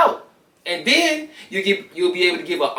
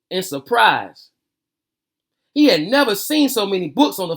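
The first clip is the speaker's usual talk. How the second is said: lively read-aloud storytelling voice; story narration. Acted. Reading a picture book aloud to viewers, lively storytelling.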